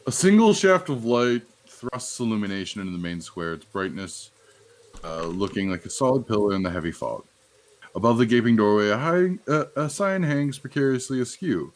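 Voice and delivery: measured read-aloud scene setting; game master's scene narration. A narrator's reading. Game master reading what the players see as they walk in, narrated. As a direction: read the description out to set the scene.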